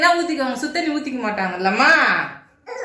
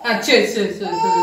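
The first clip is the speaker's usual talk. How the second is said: soothing; 7 semitones lower, slower than usual. Real, not acted. Soothing the crying baby.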